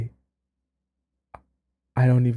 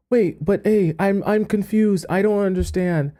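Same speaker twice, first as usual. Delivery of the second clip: ordinary talk, nothing marked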